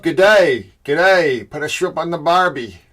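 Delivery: playful mock Aussie greeting; jokey, hammed-up Australian accent. Shown as a demonstration. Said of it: "that's my Australian accent".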